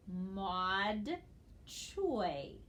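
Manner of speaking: "Maud" rising, pause, "Choi" falling; syllable by syllable. Shown as a demonstration. Teacher reads along with the class, "Maud Choi" in separate syllables. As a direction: sound out "Maud", then "Choi". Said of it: "let's read the word together".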